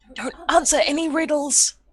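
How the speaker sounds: high, theatrical stage whisper, meant to be overheard. Warning Thorland in character about a serpent: stage whisper. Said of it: "in a stage whisper".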